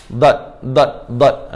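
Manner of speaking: "dot" said without any bouncing release; incorrect dad, no rebound. Shown as a demonstration. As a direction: demonstrate a faulty, dead-ended "Dot". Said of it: "ni memang tak tepat lah". (sebut "dot" tanpa pantulan)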